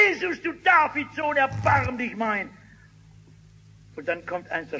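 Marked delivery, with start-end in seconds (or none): 0.1-2.5 a high cry for mercy that breaks through; desperate cry. Acted. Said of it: "Und der Blinde schreit".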